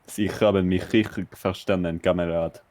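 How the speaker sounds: a lightly voiced German officer; understated German soldier; German spy. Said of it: "German spy on the Eastern Front impression".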